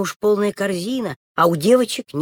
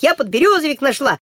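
excited call; 7 semitones higher, 4 dB louder than usual. Acted. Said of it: "Белочка кричит".

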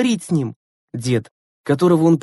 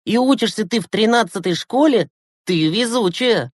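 high, lively, astonished question; amazed delight; 8 semitones higher than usual. A narrator's reading. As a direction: marvel at it, pitch climbing to the end. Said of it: "восхитился Глеб". (с восхищённым изумлением, высоко)

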